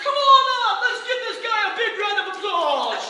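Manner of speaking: loud, high stage-host welcome; showman shout. Retold or imitated. Performer calling Lenny up to the stage, loud. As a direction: whip up the crowd.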